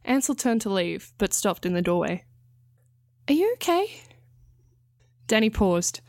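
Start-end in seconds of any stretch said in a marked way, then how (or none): 3.3-4.0 concerned. A narrator's reading. Ansel asks with concern.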